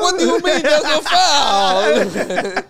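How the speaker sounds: loud, high, drawn-out mock outrage; hammed-up protest. Player disputing a foul call with the ref, hammed-up loud protest. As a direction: wail it slowly at the referee, half laughing.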